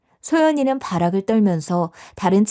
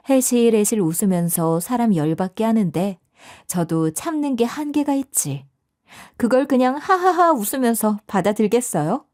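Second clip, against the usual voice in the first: ordinary delivery, nothing marked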